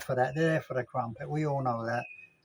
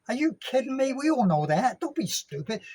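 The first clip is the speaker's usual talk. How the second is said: high-pitched mock disbelief; mock incredulous; 8 semitones higher than usual. Vlogger jeering at travellers' claims, mock incredulous. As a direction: scoff in a raised voice, as if nobody is fooled.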